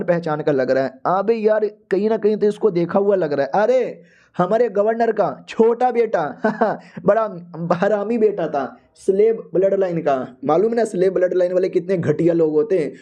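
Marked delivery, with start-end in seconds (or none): 6.3-7.0 a brief, light laugh; short chuckle. Real, not acted. Narrator describing the governor's son, short amused laugh. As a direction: let out a small chuckle mid-story.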